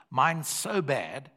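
slow, drawn-out dread; a slow, dreading aside. Retold or imitated. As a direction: stretch it out like fearing the worst. Son dreading the result.

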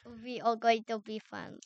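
mimicking a bad Bulgarian accent; mock Bulgarian, loosely done; imitated silly accent. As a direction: parody someone's clumsy Bulgarian accent. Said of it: "you make it sound like".

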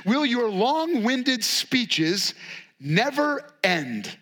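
drawn-out, very slow exasperated jab; weary jab. Retold or imitated. Job jabbing at his friends, slow weary dig. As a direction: stretch every word, fed up. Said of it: "he really throws a jab".

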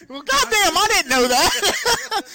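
high, slow surprised exclamation; mock surprised drawl. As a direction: stretch it out amazed.

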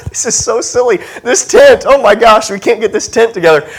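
giggling through the words at a silly tent; half-laughing, amused disbelief. Retold or imitated. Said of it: "I'm just laughing at this tent".

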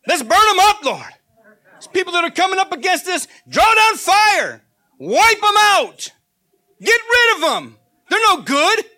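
loud, high zealous cry, slowing on fire; vengeful disciples. Retold or imitated. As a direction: call down fire with fervor. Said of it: "they called them the sons of thunder".

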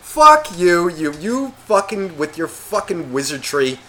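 loud mock outrage, climbing in pitch; angry retort. Telling off the dog-smell claimant, loud mock anger. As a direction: throw it back loudly, harder the second time. Acted retort to cat-owner argument.

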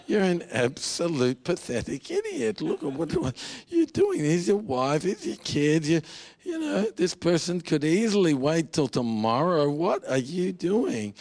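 acted-out exasperation at oneself; self-scolding inner voice. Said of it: "you're just thinking".

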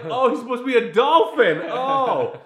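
high, loud dawning surprise; sudden realization. Retold or imitated.

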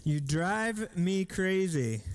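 slow, drawn-out reading of the words. Shown as a demonstration. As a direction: let each word hang, slowly. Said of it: "That could have been a mom saying".

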